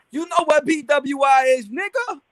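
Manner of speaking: high-pitched mocking Baltimore accent; strong Baltimore accent. Imitating Best of the Best's angry Baltimore accent. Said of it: "He was like".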